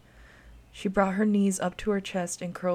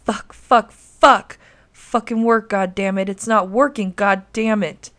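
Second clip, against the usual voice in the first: furious shouting; 2 semitones higher, 12 dB louder than usual. A narrator's reading. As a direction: explode in frustrated fury, yelling. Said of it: "The man began to shout and curse".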